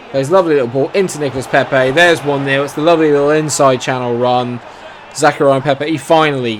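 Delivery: excited commentary. Real, not acted. His team scores.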